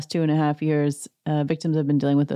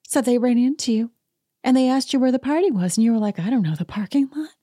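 higher, annoyed mock Kyle; irritated Kyle impression; 7 semitones higher than usual. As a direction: complain at him like Kyle. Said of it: "she's like".

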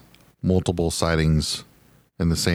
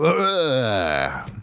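mock disgusted groan; 6 semitones higher than usual. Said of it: "You gotta go".

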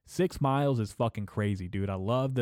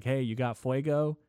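higher-pitched mock pestering question; imitating geeked-out guy; 4 semitones higher than usual. Geeked-out stranger asks couple for a lighter, lightly mimicked. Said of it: "severely geeked out of his mind".

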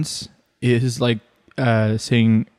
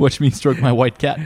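laughing villain. Pretend. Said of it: "villain from a James Bond movie".

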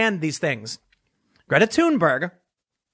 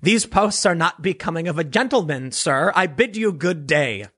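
a hint of stuffy British English, mostly his own voice; mock British accent; 3 semitones lower than usual. Translating his retort for a British critic, mock British accent. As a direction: bid him good day like a prim Englishman, tongue in cheek. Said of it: "translate my retort to British English".

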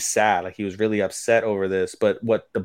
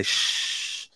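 soft, voiceless shushing; retold shush, breath only; imitated shush; 8 dB quieter than usual. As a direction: hush them with a quiet hiss of air. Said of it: "they both say".

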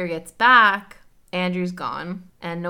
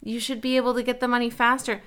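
a mock entitled Karen, higher; Karen demanding; 6 semitones higher than usual. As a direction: whine like an entitled customer. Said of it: "she pulls a full-on Karen".

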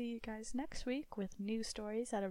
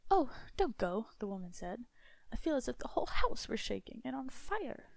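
frightened plea; 3 semitones higher, 5 dB louder than usual. Acted. Wife begs husband not to go.

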